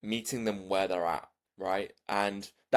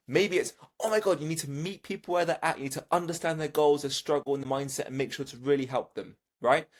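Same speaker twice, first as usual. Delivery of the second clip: higher, energetic hype coaching; excited, hyped-up; 5 semitones higher than usual. Shown as a demonstration. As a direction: pump them up, upbeat. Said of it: "that's your tonality".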